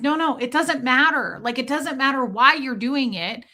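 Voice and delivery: mildly pissed-off, pressing the point; imitated annoyance. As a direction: mimic an exasperated supervisor. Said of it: "they would get really pissed at me".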